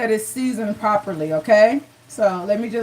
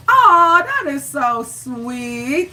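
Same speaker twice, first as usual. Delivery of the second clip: touched aw; much slower than usual. Real, not acted. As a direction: melt at the compliment. Viewer calls her beautiful.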